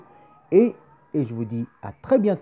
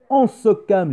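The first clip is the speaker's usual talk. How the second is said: higher, louder "on se calme" to hush the room; mock scolding call; 7 semitones higher, 7 dB louder, slower than usual. Real, not acted. Host telling the boys in the audience to calm down, loud. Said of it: "calming the boys".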